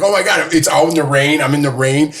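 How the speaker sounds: mildly distressed, pitch lifted; a touch of mock wailing, no tears; retold tearful distress. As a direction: relive being upset in the rain. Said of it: "I was, like, crying".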